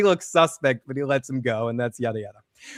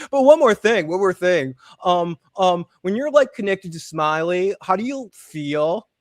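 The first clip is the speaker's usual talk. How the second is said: hesitant pestering; 2 semitones higher, 4 dB louder, slower than usual. Retold or imitated. Kenny interrupts her work to ask, mock hesitant pestering. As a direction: imitate someone sheepishly pushing one more question.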